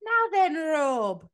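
high, slow mock Irish lilt as a TV host; awful Irish impression. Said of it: "That's an awful impression".

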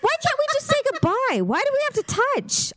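high, pleading whine; exasperated plea. Retold or imitated. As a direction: whine it, fed up with touching. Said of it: "I'm like".

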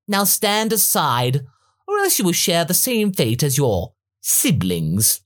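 high, slow sneering tyrant; mock them from above; haughty Frieza voice.

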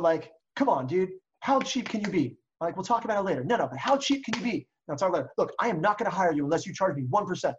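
irate seller pushing back on commission; playing both parts. Shown as a demonstration. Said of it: "be a little more irate that you pretend".

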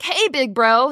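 mock sibling greeting. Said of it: "if I walked up to my brother and was like".

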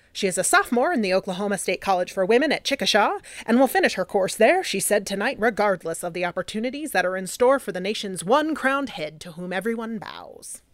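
lightly voiced 1920s newsreel announcer; a hint of an old radio newsreader; old-timey voice. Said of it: "I'm gonna use my old, old-timey voice".

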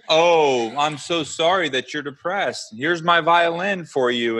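mock a whiner with syrupy fake sympathy. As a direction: sneer out fake comfort for someone depressed. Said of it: "Coddle you?".

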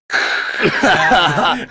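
hissy spray-can burst from the mouth; imitated spray noise. Telling friends about a prank video, imitated spray noise. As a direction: mimic a spray going off. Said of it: "and sprays it all over".

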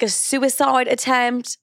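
stretched British accent, by accident; accidental British accent. Real, not acted. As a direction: slip briefly into a British accent. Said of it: "didn't mean to do a British accent".

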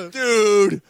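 high-pitched exasperated outburst; loud first word, then high indignant disbelief; incredulous. Real, not acted. Fan scolding co-host who never saw Pulp Fiction, incredulous.

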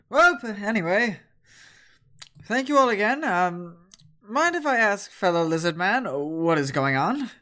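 sweetly curious demon asking the lizard man; succubus voice. Acted. Succubus asking the party what happened, lightly voiced. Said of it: "She goes".

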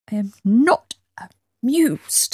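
put-on whispered grumpy old man; Victor Meldrew style. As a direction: grumble it in a breathy whisper. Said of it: "Kind of".

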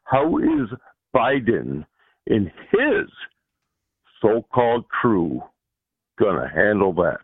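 raspy, rough-throated voice. Real, not acted. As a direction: speak through a rough throat. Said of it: "excuse my voice. I got a little rough throat".

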